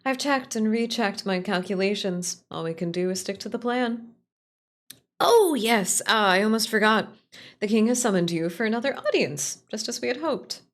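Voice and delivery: lightly voiced companion, brightening at the start; eager companion. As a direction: play Aphra delighted to remember the news. Voices Aphra's dialogue.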